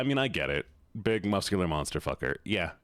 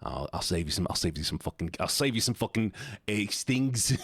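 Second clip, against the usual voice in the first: mock British accent. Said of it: "talk in this accent".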